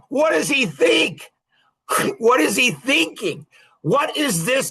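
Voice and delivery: exasperated shout at a fool; exasperated outburst. Real, not acted. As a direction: throw the question out in disbelief. Exasperated rant about the guy.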